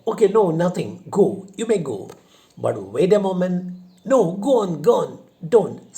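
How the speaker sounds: loud and high, dismissing him then calling him back; flustered loud commands. Acted. Widow torn between sending him off and keeping him, loud. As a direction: shout go, then take it back at once.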